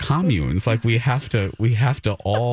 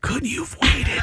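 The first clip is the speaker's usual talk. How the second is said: exasperated plea. Pretend. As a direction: throw up your hands and plead. Mock pleading to Brady.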